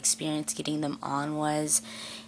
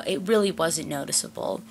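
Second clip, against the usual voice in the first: usual speaking voice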